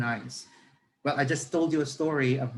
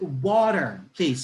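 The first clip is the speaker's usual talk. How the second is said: put-on emphatic English-accented "Water", louder; good English accent; 4 dB louder, much slower than usual. Passenger demonstrates his slip to listeners, stressed good English accent. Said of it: "with the accent".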